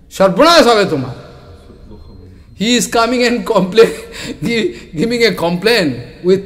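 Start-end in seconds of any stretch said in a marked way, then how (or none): 0.1-1.2 angry curse. Retold or imitated. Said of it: "He became very angry".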